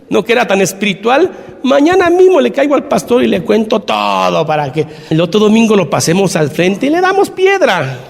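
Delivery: mock outrage, rising on the threats; lightly hammed-up righteous indignation; indignant tattletale. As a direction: play a self-righteous informer, emphatic and animated. Acted self-righteous church member denouncing adulterer.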